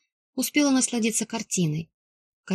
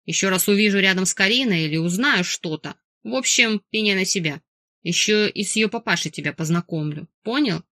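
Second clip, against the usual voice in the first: growled threat. Acted. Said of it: "прорычал".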